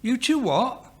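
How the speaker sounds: high-pitched baffled question; baffled, feeling foolish. A narrator's reading. Sydney mishears the Italian word, baffled. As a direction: ask it high, not understanding. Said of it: "feeling foolish".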